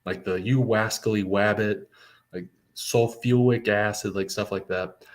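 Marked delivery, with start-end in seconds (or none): 0.3-1.9 R's turned into W's in "wascally wabbit"; Elmer Fudd. Acted. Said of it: "like, an Elmer Fudd speech impediment". 2.7-4.1 "sulfuric" said with a W for the R; "sulfuric" softened to "sulfuwic"; Elmer Fudd. Acted. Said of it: "like, an Elmer Fudd speech impediment".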